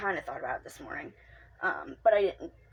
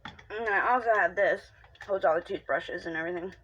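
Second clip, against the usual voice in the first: chewing while talking. Real, not acted. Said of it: "Sorry, I'm chewing".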